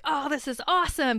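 bright, lifted "oh, this is awesome"; excited. Retold or imitated. Watching the show and seeing familiar places, eager delight. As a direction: perk up like a fan spotting a favorite show. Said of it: "And I get excited".

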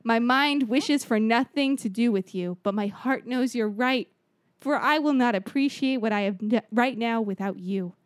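grand speech. Acted. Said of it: "the way you said it".

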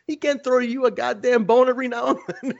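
high teasing with a laugh; laughing, mock-outraged jab; laughing mock rant. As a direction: rib him while laughing. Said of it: "I said".

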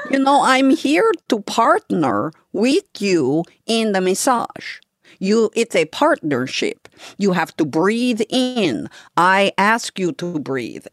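gently imitated Brazilian accent, explaining the partnership; Ruthie's Brazilian accent. Masseuse explaining partnership to client, in a lightly imitated Brazilian accent. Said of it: "my terrible Ruthie accent".

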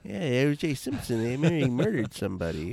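Norm Macdonald impression. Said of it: "You're doing Norm Macdonald".

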